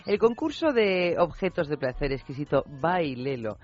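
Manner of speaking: announcer voice. Acted. Announcing the contest title.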